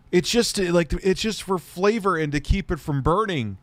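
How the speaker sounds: incredulous rant. Real, not acted. Incredulous rant about the butter.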